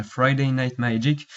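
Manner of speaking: slow, careful English accent on Friday Night Magic. Shown as a demonstration. Explaining the tournament name to viewers, in a proud English accent. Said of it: "remarquez mon accent anglais".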